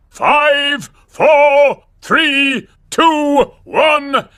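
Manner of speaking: evenly spaced, punched-out numbers; rocket countdown. Acted. Showing children a launch, dramatic countdown.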